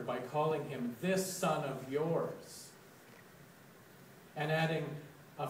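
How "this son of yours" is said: slow, pointed quote of an insult; disowning. Retold or imitated. Elder brother refusing to acknowledge his brother, pointedly disowning. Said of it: "refusing to acknowledge his brother".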